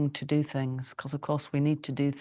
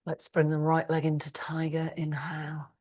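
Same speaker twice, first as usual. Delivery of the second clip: hushed, unvoiced guidance; whispered instruction. Real, not acted. Teacher leading class into tiger pose, whispered. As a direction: whisper the cue so not to break the calm.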